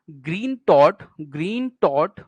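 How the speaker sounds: "ग्रीन" and "थॉट" each given a full beat; stressed syllables. Shown as a demonstration. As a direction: lean heavily on both "ग्रीन" and "थॉट". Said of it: "बल्कि stressed हैं". ("ग्रीन थॉट" दोनों शब्दों पर ज़ोर)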